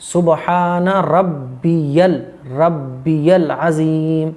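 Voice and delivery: सुबहान रब्बियल अज़ीम very slow, ज़ clearly buzzed; slow, clear recitation. Shown as a demonstration. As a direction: model अज़ीम with a real z sound. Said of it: "जा की निकालनी है". (अज़ीम में 'ज़' साफ़, बहुत धीरे)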